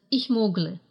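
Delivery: «mogle» said as two syllables, mog-le, with no e before the l; dropped e in mogle. Shown as a demonstration. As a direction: swallow the e in «ich mogle». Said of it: "гласный «э» в форме первого лица съедается". («ich mogle» без гласного «э» перед l)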